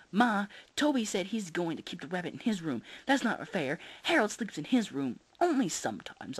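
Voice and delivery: put-on high, complaining child; whiny kid voice. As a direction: whine it to Mom like a kid.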